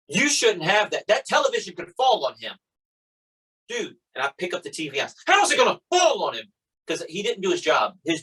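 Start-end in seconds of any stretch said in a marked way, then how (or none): 0.1-2.5 high mock yell of a scolding cop; imitated yelling. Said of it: "the cop yells at me". 5.3-6.5 very high, incredulous mock yell; retold angry retort.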